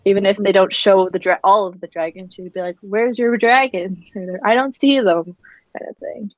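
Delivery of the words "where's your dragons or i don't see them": sassy. Acted. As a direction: imitate a sassy questioner, pitched up. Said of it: "if she wants to be really sassy".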